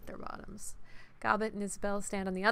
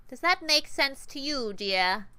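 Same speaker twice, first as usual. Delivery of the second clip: higher, slow, sugary grinding menace; sweet, nasal and grinding; 5 semitones higher, 6 dB louder, slower than usual. Acted. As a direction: sweeten the threat until it grinds. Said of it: "Sweet, nasal, and grinding".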